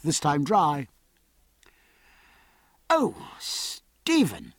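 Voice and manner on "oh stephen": high, drawn-out happy exclamation; long, high-pitched greeting cry. A narrator's reading. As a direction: call the name slowly, pitch leaping up. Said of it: "cried Jack".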